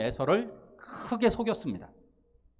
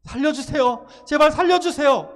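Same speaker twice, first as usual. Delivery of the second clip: high, loud yelling plea, 제발 hit hardest; the louder, more desperate take of the plea; desperate shout for help; 8 semitones higher, 8 dB louder than usual. Retold or imitated. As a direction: scream to be saved with everything you have. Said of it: "이렇게 외치겠죠".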